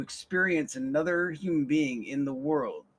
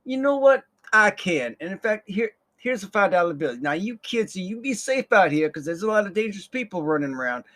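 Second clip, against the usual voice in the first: kind coworker; 5 semitones higher, 5 dB louder than usual. Retold or imitated. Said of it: "She's like".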